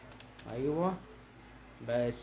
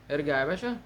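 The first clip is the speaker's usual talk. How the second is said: usual speaking voice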